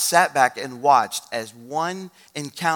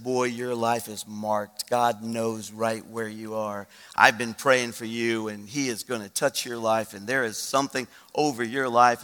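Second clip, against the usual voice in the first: slow, low, solemn assurance; measured prophetic tenderness; earnest blessing; 3 semitones lower than usual. Retold or imitated. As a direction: speak it gently over him, word by word. Pastor speaks blessing over young man.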